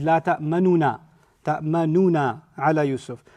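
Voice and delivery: "ta'manuna" with the u voiced clearly; "La ta'manuna ala Yusuf" with the u said; with spoken dhamma. Shown as a demonstration. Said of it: "pronounce it with a dhamma".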